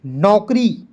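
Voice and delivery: loud word-by-word classroom reading; read-along drill. Shown as a demonstration. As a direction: call out each word, then leave room to repeat. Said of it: "मेरे साथ आप सभी लोग पढ़ेंगे".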